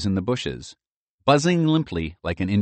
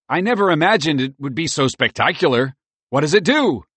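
awed squirrel voice; 8 semitones higher, 5 dB louder than usual. A narrator's reading. Merle voice awed.

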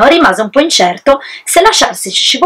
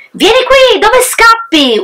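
much higher, drawn-out wolf cry; furious wolf yell; 13 semitones higher, slower than usual. Acted. Wolf yelling after the fleeing pig, furious. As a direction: call after the escaping pig in a rage. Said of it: "urlò, cercando di fermare".

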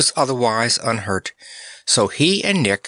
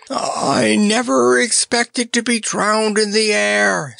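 scream; 11 semitones higher than usual. Acted. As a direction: scream it against the storm. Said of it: "screamed Notta".

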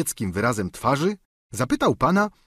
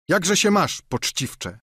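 higher, mocking servant's greeting; stable boy; 7 semitones higher, slower than usual. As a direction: toss off a cheeky hello. (lekko zagrany pachołek, wyżej)

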